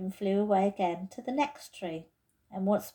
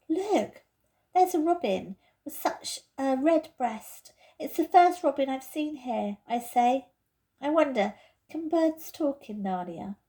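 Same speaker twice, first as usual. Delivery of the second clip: put-on higher, excited little girl; lightly voiced girl, delighted; eager young girl; 5 semitones higher, 3 dB louder than usual. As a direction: point it out with wonder. Lucy spots the robin.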